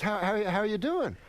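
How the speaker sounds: stammering, fast Rodney impersonation; jittery nightclub comic greeting a fan; Rodney impression.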